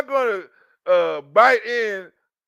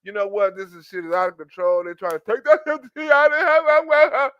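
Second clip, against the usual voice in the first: mock dramatic complainer; 3 dB louder than usual. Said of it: "you be like".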